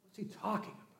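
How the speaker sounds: hushed, scandalized whisper; whispered disbelief. Acted. Religious leaders whispering among themselves, scandalized. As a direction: whisper it like a shocked elder.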